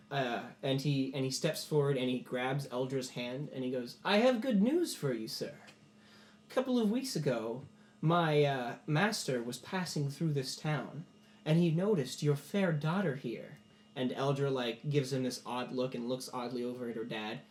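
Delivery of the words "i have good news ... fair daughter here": lightly voiced noble bringing good news; courtly messenger. Game master voices Katros.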